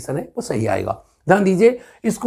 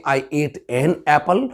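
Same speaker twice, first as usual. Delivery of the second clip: Indian English; much slower than usual. Shown as a demonstration. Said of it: "हम और आप बोलते हैं".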